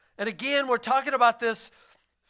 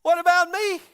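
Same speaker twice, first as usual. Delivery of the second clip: higher, pleading what about me; mock complaint, pitched up; whiny left-out disciple; 8 semitones higher, 6 dB louder than usual. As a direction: whine like the one who missed out. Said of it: "Neil's like".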